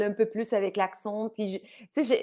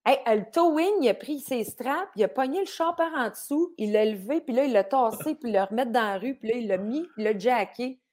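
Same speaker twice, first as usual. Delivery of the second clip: Québécois father; 3 semitones higher than usual. Retold or imitated. Father telling a towing story, lightly imitated Québécois. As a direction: play dad recounting it in thick Québécois. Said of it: "mon père rentre dans".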